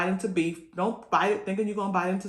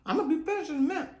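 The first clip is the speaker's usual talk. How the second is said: laughing; 10 semitones higher, much faster than usual. Real, not acted. Laughing with mouth full.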